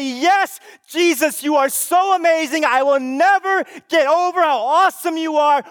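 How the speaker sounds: loud, exultant cry of worship; shouted praise. Pretend. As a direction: shout it out to Jesus in awe.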